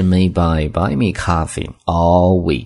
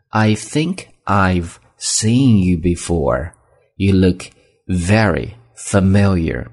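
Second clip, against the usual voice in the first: slow careful reading; much slower than usual. Shown as a demonstration. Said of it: "面熟这样的一个单词".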